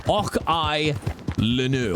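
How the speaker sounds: non-Scottish English accent, carefully spaced; English-accented reading of a Scots phrase; Anglo-Saxon way. Shown as a demonstration. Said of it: "I'll say it in, in a very Anglo-Saxon".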